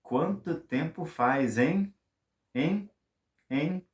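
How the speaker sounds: slow quanto tempo faz, then high rising hein, hein; teasing hein. Shown as a demonstration. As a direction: nudge a friend for agreement. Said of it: "Or you can even say".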